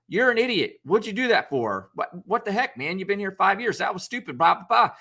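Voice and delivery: hammed-up berating of an employee; mock angry scolding. Mock angry boss chewing someone out.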